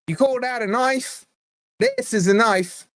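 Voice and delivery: put-on a light Australian accent on the knife line; lightly done Australian movie hero accent. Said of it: "given you a clue with the accent".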